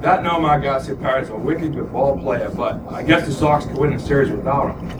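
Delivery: thick imitation New England accent. Shown as a demonstration. Podcaster's key phrase for getting back home, New England accent. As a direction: drop the R's like a New Englander. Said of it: "gets me back into that".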